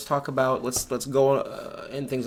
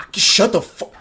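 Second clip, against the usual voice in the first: laughing exasperated; 9 semitones higher, 9 dB louder than usual. Real, not acted.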